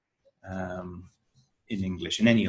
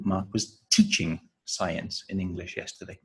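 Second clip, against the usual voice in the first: teaching raised in a correction; stress on teaching; 3 semitones lower, 5 dB quieter than usual. Shown as a demonstration. Teacher contradicting "experimenting", stress on teaching. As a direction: correct them by lifting "teaching". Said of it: "the stressed word".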